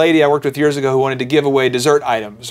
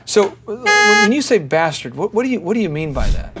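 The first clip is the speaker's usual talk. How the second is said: innocent question; 4 semitones higher than usual. Retold or imitated. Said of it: "I'm not exaggerating".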